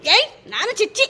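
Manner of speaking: high, slow, swooping mock protest; playful baby talk. Parent in a smacking game with a child, high drawn-out playful protest. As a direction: stretch it out high for a small child.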